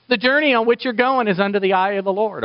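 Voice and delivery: imitating a glib priest's send-off; breezy reassurance. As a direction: hand out an easy, assuring blessing. Levite's blessing, then preacher's wry echo.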